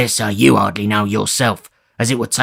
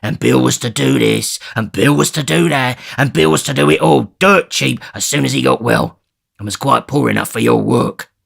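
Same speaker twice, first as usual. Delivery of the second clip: louder, sneering resentment; bitter grin; 3 semitones higher, 4 dB louder than usual. Acted. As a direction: bitterly list his grievances. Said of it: "replied Sikes with a bitter grin".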